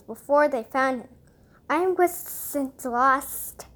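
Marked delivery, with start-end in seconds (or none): 1.7-3.7 slow hissing serpent voice; drawn-out hiss, like a snake. Acted. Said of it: "hissed the snake".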